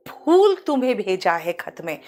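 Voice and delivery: "फूल" opening on a puffed p; careful aspirated p in "फूल"; stressed Hindi pha. Shown as a demonstration. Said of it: "pronunciation पे बहुत जोर देते हैं".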